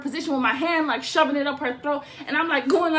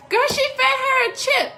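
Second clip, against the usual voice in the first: much higher, louder incredulous burst; outraged disbelief; 12 semitones higher, 6 dB louder than usual. Real, not acted. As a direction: say it like you can't believe it. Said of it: "outraged retelling".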